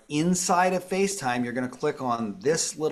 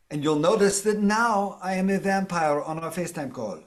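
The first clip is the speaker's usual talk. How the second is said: higher, hammed-up Eastern European vampire accent; cartoon Eastern European count with a higher voice; 4 semitones higher than usual. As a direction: play a spooky Eastern European vampire for the camera. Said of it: "Like an Eastern European vampire. I don't know what that accent was".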